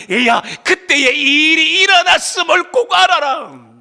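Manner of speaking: high, loud, drawn-out proclamation; ringing exhortation. Acted. God's first words to a child, proclaimed loudly. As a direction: call it out slowly and forcefully.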